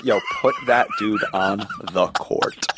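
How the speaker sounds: put-on high, slowed-down teen bench heckler; cocky high-pitched teen jeer; teenage self heckling. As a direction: draw it out high, mocking like a seventeen-year-old. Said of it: "I'm talking, like, me at seventeen".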